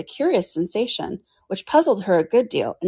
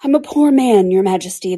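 trembling voice; 5 dB louder than usual. Acted. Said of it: "in a trembling voice".

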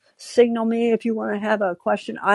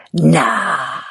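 hushed playful no; whispered nah; 4 semitones lower, 3 dB louder than usual. Retold or imitated. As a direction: brush it off in a whisper. Teasing reply to love.

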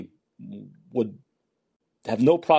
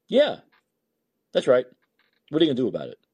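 defiant taunt; 3 dB louder, faster than usual. Pretend. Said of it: "start saying".

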